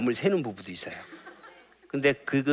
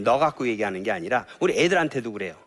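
ordinary talk, nothing marked

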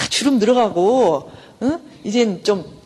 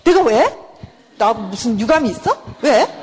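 defensive snap; 3 semitones higher, 3 dB louder, slower than usual. Retold or imitated. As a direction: bristle back at the question, offended. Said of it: "막 이렇게 나오면".

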